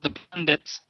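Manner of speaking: flat, mechanical robot voice. Pretend. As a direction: speak like a robot. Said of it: "You started in a robot voice".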